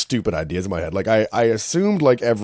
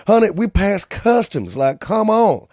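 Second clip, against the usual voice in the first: mock exasperated plea; 11 semitones higher, 6 dB louder, slower than usual. Mocking an exasperated traveller at customs.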